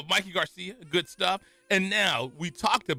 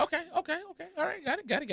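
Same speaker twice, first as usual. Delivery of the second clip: okay, okay; 12 semitones higher, 5 dB quieter, much faster than usual. Real, not acted. Conceding to partner.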